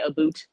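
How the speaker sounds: "boot" said with an oo for "about"; Canadian "a boot". Retold or imitated. Giggling at Canadian friends, imitated Canadian "a boot". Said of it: "when they say".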